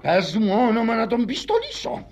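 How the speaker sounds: high, slow, drawn-out threat; jealous threat. Acted. Jealous husband demanding the rival's name from wife, threatening. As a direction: stretch the demand menacingly upward.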